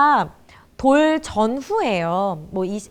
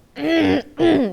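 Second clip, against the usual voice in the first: gruff wordless throat-clear; awkward throat-clearing; 3 semitones higher, 3 dB louder than usual. Acted. Older parent avoiding an apology, awkward throat-clearing. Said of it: "이러고 그냥".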